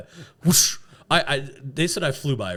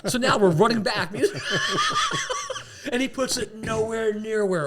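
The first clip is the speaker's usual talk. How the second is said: laughing; 11 semitones higher than usual. Real, not acted. Laughing while telling.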